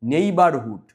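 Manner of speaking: first syllable নেই of নেইবারহুড stressed; stress on NEIGH. Shown as a demonstration. Teacher shows pupils নেইবারহুড with stress on নেই. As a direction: lean on নেই in নেইবারহুড, then fall away. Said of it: "জোর দিয়ে পড়তে হবে".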